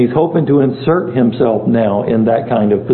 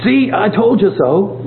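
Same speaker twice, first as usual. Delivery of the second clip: mock gloating told you so, pitched higher; smug told you so; 7 semitones higher than usual. Teacher shows the tone Paul did not use, mock smug. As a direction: lightly play the smug know-it-all. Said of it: "in a tone of voice as though".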